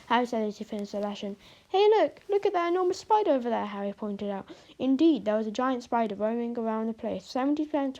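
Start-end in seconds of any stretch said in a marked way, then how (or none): 1.7-3.7 excited shout. Acted. Child spots giant spider.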